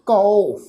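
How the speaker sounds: ਕਉ said as "kau"; kanaura vowel. Shown as a demonstration. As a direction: sound ਕਉ with a gliding au vowel. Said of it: "ਕਨੌੜੇ ਦੀ ਮਾਤਰਾ".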